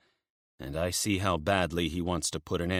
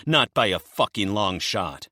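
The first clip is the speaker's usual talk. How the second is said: menacing promise; 3 semitones higher, 5 dB louder than usual. Acted. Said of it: "he promises me".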